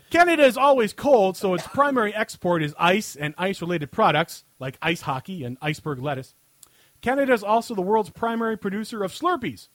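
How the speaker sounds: emphatic segment-host read, punching key phrases; scripted comic rant. Acted. Host answering a listener question on air, scripted comic rant. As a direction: read a mock-serious written answer aloud.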